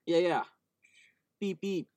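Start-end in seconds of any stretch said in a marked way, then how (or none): 1.4-1.9 playful higher beep beep; phone beeps. Pretend. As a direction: chirp it like a phone notification. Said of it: "it's the noise they make".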